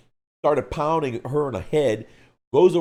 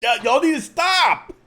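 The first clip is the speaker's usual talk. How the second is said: exasperated protest; 14 semitones higher, 6 dB louder than usual. Real, not acted. Reacting to teasing comments.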